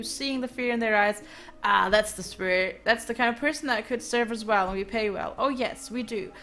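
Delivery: lightly voiced smooth-talking recruiter; a hint of a swaggering caravan leader; voicing a caravan boss. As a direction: sell the job like a cocky boss. Voices NPC Dimitri recruiting.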